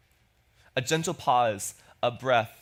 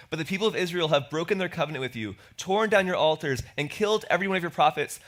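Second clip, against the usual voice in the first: a touch of desperation, rising toward the end; desperate plea. Acted. Elijah answering God, mildly desperate. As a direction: plead like a cornered man. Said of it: "I want you to hear the desperation in Elijah's voice here".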